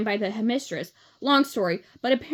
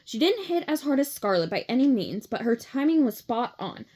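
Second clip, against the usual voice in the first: plain reading voice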